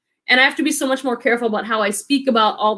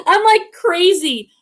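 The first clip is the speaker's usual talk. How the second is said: laughing; 6 semitones higher, 3 dB louder, slower than usual. Real, not acted. Laughing at own joke.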